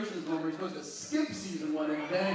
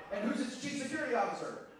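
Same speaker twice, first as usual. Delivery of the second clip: ordinary talk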